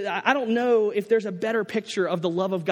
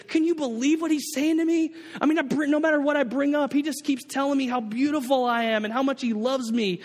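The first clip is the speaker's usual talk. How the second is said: amazed delight; 5 semitones higher than usual. Retold or imitated. Jean amazed to the pastor.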